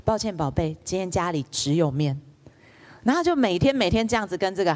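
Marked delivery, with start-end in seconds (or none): 0.1-2.2 a hint of a tender mother saying no; gentle mother. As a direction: calmly turn the child down, gently. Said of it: "他也会很温柔的告诉她".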